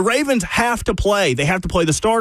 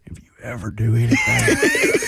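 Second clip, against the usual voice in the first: very high, cracking mock yell; mock threatening shout. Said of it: "he said".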